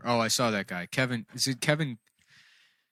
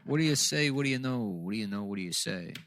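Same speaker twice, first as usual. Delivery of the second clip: noir detective. Pretend. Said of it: "It's just the voice".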